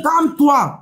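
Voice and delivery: high, pushed plea. Real, not acted. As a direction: call it out over him. Heated debate, repeats plea.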